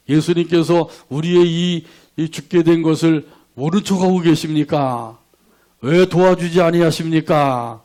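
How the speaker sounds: lightly acted resentful appeal; reproachful prayer. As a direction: plead with a touch of reproach. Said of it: "이 기도는 원망의 기도가 되는 거죠".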